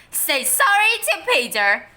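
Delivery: loud firm command; stern order. A narrator's reading. Mother ordering her son to apologise, sternly.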